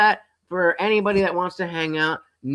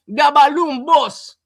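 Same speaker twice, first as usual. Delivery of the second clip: louder and higher, slow, calling out the balloon boss; mock kid catchphrase; 8 semitones higher, 7 dB louder, slower than usual. Son calling his dad with the kids' phrase, loud and slow. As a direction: stretch out balloon boss like the kids did.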